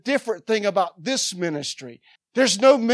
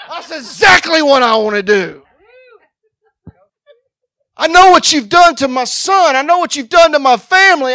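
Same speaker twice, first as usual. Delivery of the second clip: loud, high, hammering preacher cry; full-force preaching; 5 semitones higher, 13 dB louder than usual. Acted. Preacher declaring war on the devil, shouted preaching. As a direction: preach it right at the enemy with everything.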